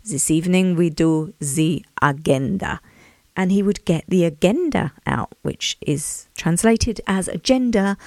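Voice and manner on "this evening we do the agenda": put-on a light German accent, stiff and formal; a mild German-accented announcement. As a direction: play the German grandfather setting the agenda. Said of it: "please excuse my German accent".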